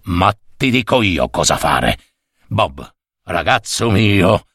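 scheming boss. Acted. Superior gives orders to Bob.

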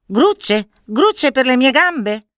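high-pitched, drawn-out bird cry; crying magpie. A narrator's reading. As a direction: squawk it back like an offended magpie. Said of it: "gridò l'uccello". (grido acuto di gazza offesa)

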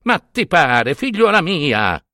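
a mild, hammed-up shout, slowing on the last words; a lightly voiced angry priest calling out. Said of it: "le gridò".

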